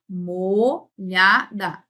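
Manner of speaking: MOLHADA slowly split as mo, lha, da; syllable by syllable. Shown as a demonstration. Teacher repeating a word to count sounds, syllable by syllable. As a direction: spell out MOLHADA by its three syllables. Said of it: "Nós temos seis aqui".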